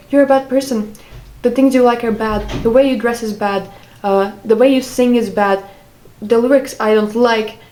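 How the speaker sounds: mildly scolding list of faults; imitated criticism. Ex-girlfriend retelling her boyfriend's constant criticism, mildly scolding. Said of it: "I would get, like, criticism".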